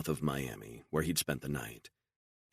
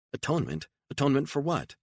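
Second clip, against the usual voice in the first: much higher disbelieving question; incredulous; 12 semitones higher, faster than usual. Acted. Beatrice questioning Stone's atonement, incredulous and high. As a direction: echo the word in disbelief.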